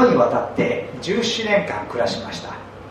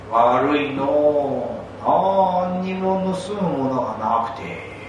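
put-on creaky wise old man. Ryokan speaks to the thief.

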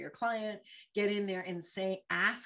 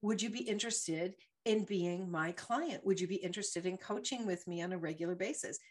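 confident rehearsed ask. Shown as a demonstration. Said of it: "I had to practice and say".

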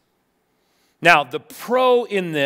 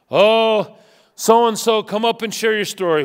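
louder, eager welcoming call; gushing host; 2 semitones higher, 4 dB louder than usual. Retold or imitated. Preacher mocking a church eagerly calling up a prodigal to testify. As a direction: invite them up with bright fanfare. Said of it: "We celebrate the prodigals".

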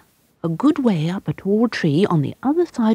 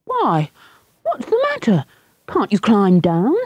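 calling up; 5 semitones higher than usual. Acted. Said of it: "yelled back Michael".

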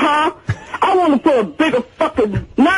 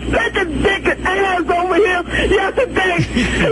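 real emotional rant, half crying, half yelling; upset tearful rant; 4 semitones higher than usual. Real, not acted. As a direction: pour it all out, upset and pleading. Tearful caller ranting on voicemail.

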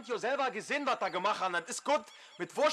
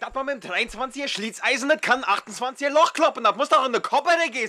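furious shouting tirade; berserk rage; 2 semitones higher, 6 dB louder than usual. Real, not acted. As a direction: yell it in blind fury. Wütender Streit auf der Baustelle. (rasend vor Wut brüllen)

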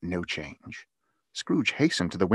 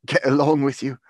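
loud, higher, good-humoured comeback; grinning retort; 5 semitones higher, 8 dB louder than usual. A narrator's reading. Brother retorting to teasing sister, grinning. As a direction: throw it back with a grin. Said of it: "retorted Peter, grinning".

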